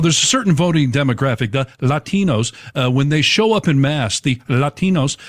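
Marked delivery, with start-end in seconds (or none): 1.5-2.5 put-on slipping into a Spanish accent on "Latinos". Newscaster naming a voting demographic, put-on Latino accent. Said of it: "slip into an accent". 4.2-5.2 put-on Latino accent. Newscaster naming a voting demographic, put-on Latino accent. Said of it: "slip into an accent".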